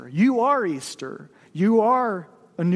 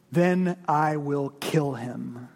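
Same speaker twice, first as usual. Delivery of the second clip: calm angel; 5 semitones lower, much slower than usual. Acted. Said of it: "said the angel".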